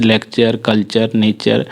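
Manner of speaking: लेक्चर, कल्चर, नेचर ending in "char"; TURE said as चर. Shown as a demonstration. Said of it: "उसका उच्चारण चर होता है".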